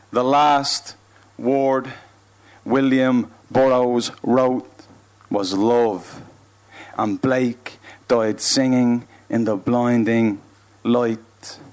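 slow, measured declaimed verse; spoken-word poetry. Acted. Poet listing the deaths of artists, slow declamation. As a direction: place each phrase apart, drawing out the words. Performs poem Last Words.

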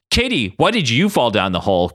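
mildly irritated question; annoyed. Acted. Ryan asks why Katie fell on them, annoyed. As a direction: ask with a touch of annoyance.

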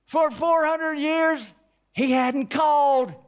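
preacher marvelling at the long silence; amazed. Acted. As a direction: draw it out in wonder. Amazed emphasis.

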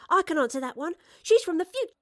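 high, loud, bursting to tell; a girl's high-pitched eager outburst; excited blurting. Acted. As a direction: jump in and blurt out the secret. Girl blurts out a secret.

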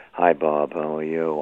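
soft, low murmur of mourners at a wake; hushed wake greeting. Retold or imitated. Mourners greeting Bob in the receiving line, hushed murmur.

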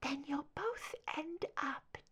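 soft high whispered death threat. A narrator's reading. Deborah whispering a final threat to Mulder. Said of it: "Her voice lowered to a whisper".

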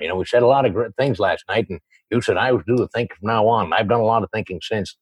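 a touch of a low, quiet Bogart; Humphrey Bogart impression. Showing his childhood voices, a light Bogart impression. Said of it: "it's Humphrey Bogart".

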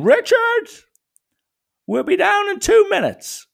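high, loud call down the stairs; calling from upstairs. Retold or imitated. Mother calling her son down from upstairs, loud high call.

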